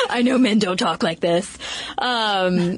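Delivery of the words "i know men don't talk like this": laughing. Real, not acted. Laughing at own fake voice.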